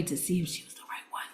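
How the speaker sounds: a conspiratorial whisper; whispered aside. Real, not acted. Confessing her real motive to the audience, whispered aside.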